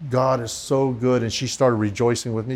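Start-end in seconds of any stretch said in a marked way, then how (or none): 0.1-1.2 slow, soft, reverent praise. Retold or imitated. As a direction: breathe out praise slowly. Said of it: "And I go".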